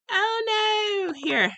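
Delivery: playful mock British accent, opening high; hammed-up British "oh no"; fake British accent. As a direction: put on a pretend British accent. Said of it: "speaking my fake British accent".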